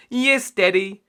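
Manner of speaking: high loud eager yes; excited cry. A narrator's reading. Piglets answering Daddy, high and loud. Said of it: "they cried, giggling".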